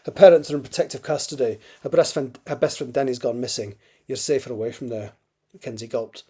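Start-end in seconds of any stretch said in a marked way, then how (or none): 0.0-5.1 put-on amateur Scottish accent for dialogue; Crothers's lines in an imperfect Scottish accent. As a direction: read it in a rough Scottish accent. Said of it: "Sorry about the terrible Scottish accent".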